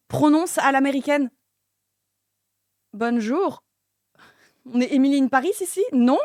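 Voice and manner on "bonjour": "Bonjour" with an American accent. Shown as a demonstration. Streamer trying out French pronounced the American way, American accent. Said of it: "Faut le prononcer à l'américaine".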